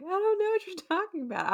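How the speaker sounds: high-pitched mock protest; mock flustered denial. Steven to Layla about his accent, high flustered mimicry. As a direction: squeal the denial in a put-on high voice.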